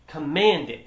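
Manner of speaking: Commanded punched as a firm order; firm stress on Commanded. Shown as a demonstration. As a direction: lean hard into Commanded, make it a strong command. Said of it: "it's a strong command".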